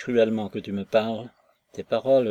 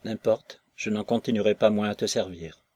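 bitter refusal; 4 dB louder than usual. Acted. Maslova refuses him, near tears.

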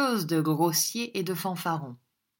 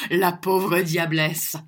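slow, loud jeer; scornful, slowed exclamation; mock pity; 5 dB louder, slower than usual. A narrator's reading. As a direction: draw it out mockingly after the laugh. Mocking a woman after a laugh.

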